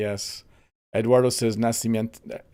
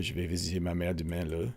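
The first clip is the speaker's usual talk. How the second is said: quicker, softer Quebec French line ending in a tacked-on "le"; 5 semitones lower, 8 dB quieter, faster than usual. Shown as a demonstration. Streamer giving chat a second Quebec example, quick, soft Quebec French demo. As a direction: rattle off "Je vais visiter ma mère demain le" the Quebec way. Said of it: "They say le a lot at the end of their sentences".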